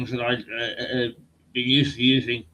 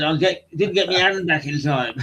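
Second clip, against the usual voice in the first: put-on Black Country accent; 3 semitones higher than usual. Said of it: "black country accents".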